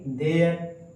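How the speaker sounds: देयर said as dare, ending like air; model pronunciation. Shown as a demonstration. Teacher modeling देयर for students, clear model word. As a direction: say देयर cleanly as the answer. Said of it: "इसको क्या बोलेंगे".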